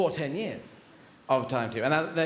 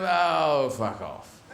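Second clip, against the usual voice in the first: mock fed-up dismissal; 3 semitones lower, much slower than usual. Acted bored dismissal of space.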